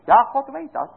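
high, fervent pulpit voice, rising through the questions; rousing sermon climax, carried high; fervent preaching. Acted. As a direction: preach it out to the congregation with full fervour. Preaching at full force.

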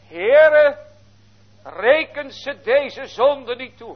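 high, loud and slow, calling out to God; a pleading shout to heaven; loud cry. Acted. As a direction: cry it out with a great voice for all to hear. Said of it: "riep hij met een grote stem".

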